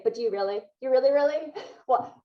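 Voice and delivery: pressing, doubtful inner voice; challenging yourself in disbelief; skeptical self-questioning. Pretend. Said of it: "go back and say".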